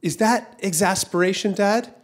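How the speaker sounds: lightly voiced little boy asking Dad; curious kid. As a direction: ask up high like a puzzled child. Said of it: "And his son says".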